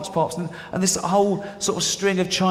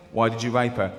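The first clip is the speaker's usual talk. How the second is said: lightly voiced judge, lower pitch; 4 semitones lower than usual. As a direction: question the defendant like a low-voiced judge. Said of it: "with the judge going".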